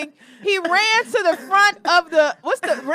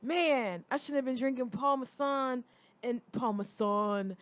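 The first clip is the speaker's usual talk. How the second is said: lower, softer mock hungover friend; lightly imitating his friend's regret; a hint of a sorry drunk; mocking Elijah; 4 semitones lower, 8 dB quieter than usual. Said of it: "let me do it".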